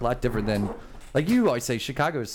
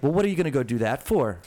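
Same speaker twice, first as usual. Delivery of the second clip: put-on Pittsburgh accent. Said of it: "they'll be like".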